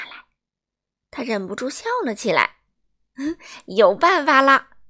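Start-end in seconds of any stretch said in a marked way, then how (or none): 3.7-4.8 chuckling. Acted. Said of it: "他笑着说".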